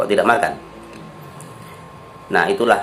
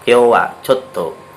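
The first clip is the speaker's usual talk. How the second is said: gentle refusal; 3 semitones higher, 4 dB louder, slower than usual. Shown as a demonstration. Teacher showing how to refuse an invitation gently. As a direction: decline politely, trailing off. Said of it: "menolak secara halus".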